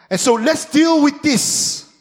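drawn out, high and firm; slow emphatic. Real, not acted. Preacher to congregation, slow and firm. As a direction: lay it down slowly.

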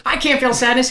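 high, bewildered voice breaking into tears; a robot who feels sadness. Acted. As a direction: play the killer machine confused by its first tears. Chip denies feeling sadness.

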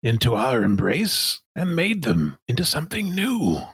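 deliberate, lofty self-justification; Sun Minister De Winton. Acted. Villain denying it lied to the crew, grand and deliberate. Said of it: "This is a tough voice to do".

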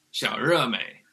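"xiao re mei" with the tongue curled back on the R; Beijing-style retroflex "re". Shown as a demonstration. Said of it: "the tongue curls back".

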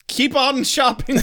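high, slow singsong ad voice; mock commercial sign-off. Closing the made-up store ad for co-host, hammed-up announcer. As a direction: stretch it out like a cheesy jingle tag.

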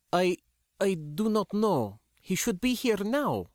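put-on high, anxious young woman. A narrator's reading. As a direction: raise the voice, uneasy and unsure. Sindra's worried reply.

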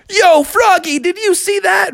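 high, boastful cartoon captain; Captain Crunch. Captain after landing his grind, excited. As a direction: call out proud of the stunt. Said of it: "and he said".

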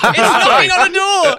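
high, loud laughing outburst; laughing protest. Real, not acted. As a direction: cry it out through a laugh. Laughing protest about police raid.

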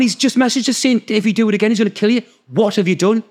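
acted-out exasperated alarm; retold alarmed confrontation. Confronting doctor about the threat.

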